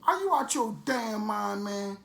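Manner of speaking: high, scolding cop in disbelief; detective telling off the informant, high incredulous scold. Retold or imitated. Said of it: "the detective even looked at him and said".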